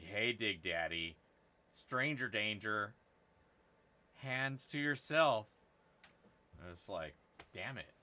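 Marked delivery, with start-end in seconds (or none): 0.0-5.5 mock scolding viewer. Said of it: "and be like".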